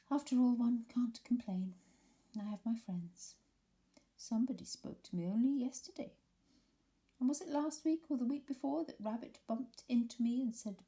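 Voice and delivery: put-on a sorry self-pitying old donkey; gloomy Eeyore. Eeyore complaining to nobody listening, lightly voiced gloom.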